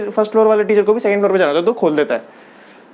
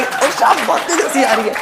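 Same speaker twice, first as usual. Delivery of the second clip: higher, giggly line "ओ, शाम बहुत तेज हंसी आ रही है" said openly; imitating a friend's laugh voice note; mock laughing message; 4 semitones higher than usual. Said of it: "हंसी, अपनी हंसी रिकॉर्ड करके भेजने वाली". (हंसी की वॉइस नोट की नकल)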